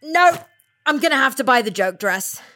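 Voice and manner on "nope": high loud nope; horrified refusal. Acted. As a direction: recoil in disgust. Horrified at the dress.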